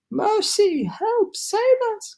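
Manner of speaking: very high, frantic pleas; terrified cry. A narrator's reading. Ladybug seeing the cloud man descend, terrified cries. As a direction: shriek for help. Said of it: "cried the ladybug".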